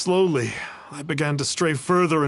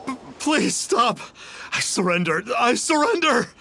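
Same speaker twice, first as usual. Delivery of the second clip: frightened begging; 5 semitones higher than usual. Acted. Spirit begging to surrender.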